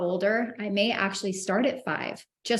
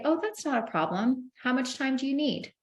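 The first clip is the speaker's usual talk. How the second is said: calm and casual; 5 semitones higher than usual. Shown as a demonstration. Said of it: "you just very calmly say".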